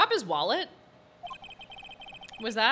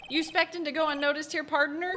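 Southern "partner" greeting; Southern accent; 5 semitones higher than usual. Acted. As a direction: play it as a Southern cowboy. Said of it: "another Southern accent in Phoenix Wright".

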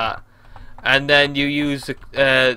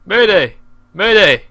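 loud, falling play alarm; mock distress call; 3 semitones higher, 5 dB louder than usual. Gamer in a falling plane, mock mayday call. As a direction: call out a pretend emergency.

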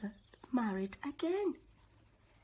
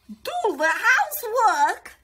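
much higher, loud cackly witch voice; 11 semitones higher, 14 dB louder than usual. A narrator's reading. Old witch inviting the children in, high and loud. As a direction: lure them in like a sweet-talking witch. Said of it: "she said".

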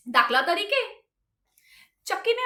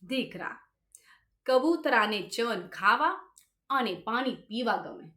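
lightly voiced grandmother-in-law; 5 semitones lower, 3 dB quieter than usual. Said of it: "બાને મને બોલાવ્યો અને કીધું".

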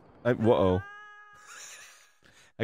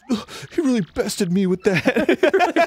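mock defeat; 10 semitones higher, slower than usual. Mock reaction in retold story.

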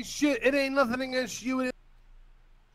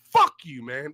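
furious curse; 10 semitones lower than usual. Real, not acted. Caller cursing his rival again, real fury. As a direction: bite off the curse in real anger.

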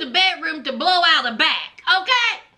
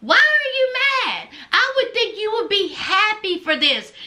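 Blaine; 3 semitones higher than usual. Retold or imitated. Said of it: "Blaine is like".

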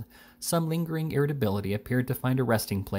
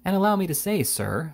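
higher-pitched, testy interjection; irascible; 8 semitones higher than usual. A narrator's reading. Army doctor rebuking Mister Pickwick, irascible. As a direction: cut in with irascible indignation. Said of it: "said the irascible Doctor Payne".

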